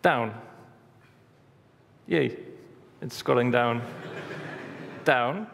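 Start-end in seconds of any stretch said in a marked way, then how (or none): 0.0-0.3 loud German-accented command. Shown as a demonstration. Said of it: "It's almost in German accent". 5.0-5.5 loud German-accented command through a laugh; loud German-accented command, half laughing. Shown as a demonstration. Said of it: "It's almost in German accent".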